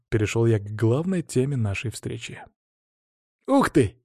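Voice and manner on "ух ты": put-on high-pitched boyish wonder; curious. A narrator's reading. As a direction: pipe up, fascinated by a new find. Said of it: "любопытный голос Сани". (любопытный мальчишеский голос, высоко)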